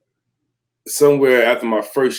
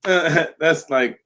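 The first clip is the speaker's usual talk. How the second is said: breezy dismissive guru; 5 semitones higher, slower than usual. Retold or imitated. Imitating the enlightened brother.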